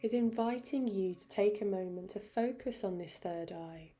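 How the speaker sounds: gentle meditation guide with long pauses; softening voice, settling into meditation; guided meditation. Real, not acted. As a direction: ease them into stillness, unhurried. Leads into a meditation.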